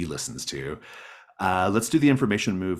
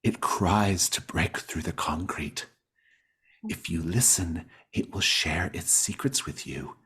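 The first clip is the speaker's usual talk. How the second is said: mystic. Acted. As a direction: speak of the soil like a gentle believer. GM plays the mystic Gail.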